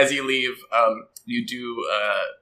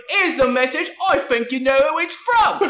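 put-on high kid voice with a threatening edge; menacing kid messenger; 4 dB louder than usual. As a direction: deliver the threat like a tiny gangster. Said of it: "And then he goes".

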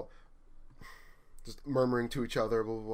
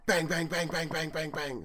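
mock banging; 5 semitones higher than usual. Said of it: "I hear him go".

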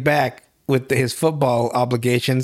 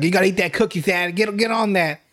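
gloating; 4 semitones higher than usual. Retold or imitated. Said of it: "He's like".

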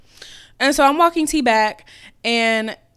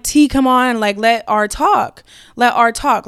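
louder, urgent pleading; louder plea; 5 dB louder, slower than usual. Retold or imitated. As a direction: push it, insistent and loud. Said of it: "in this tone exactly".

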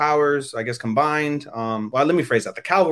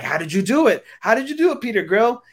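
eager crowd; 9 semitones higher than usual. Retold or imitated. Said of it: "And they're like".

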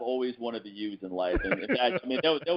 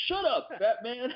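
high, slow mock put-down; movie gangster quote; 13 semitones higher, slower than usual. Wishing to tell the fat husband off with the movie line. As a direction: drag it out like a movie tough guy. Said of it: "perfect place to use that line".

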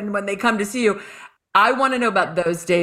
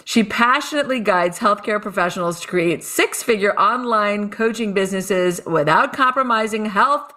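bright show-host intro; announcer voice. Acted. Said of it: "I like to put on my announcer voice".

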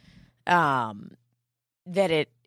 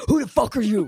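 laughing; 4 semitones higher, 4 dB louder, faster than usual. Retold or imitated. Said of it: "I was like".

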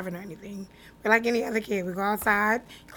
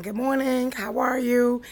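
lifted, louder imitated hello; friendly greeting; 4 semitones higher, 6 dB louder, slower than usual. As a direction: lightly act out a friendly Southern greeting.

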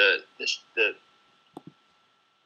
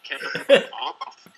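robotic broken audio; 2 semitones higher, much slower than usual. Real, not acted. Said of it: "That sounds like a robot".

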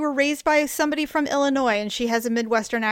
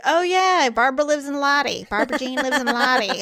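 chatty grandparents; 3 semitones higher, 3 dB louder than usual. Retold or imitated. Imitating grandparents mentioning a relative's town, chatty. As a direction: chat casually, pitched up at the start. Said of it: "they would always say".

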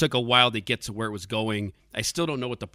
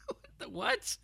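baffled; 8 dB quieter than usual. Real, not acted. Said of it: "disbelief at movie".

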